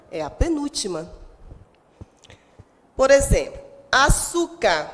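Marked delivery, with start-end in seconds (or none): 3.9-4.9 "açúcar" slowly, leaning on the su; stress on SU. Shown as a demonstration. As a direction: draw out "açúcar" to show the su. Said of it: "A sílaba tônica é o su". ("açúcar" devagar, com ênfase no su)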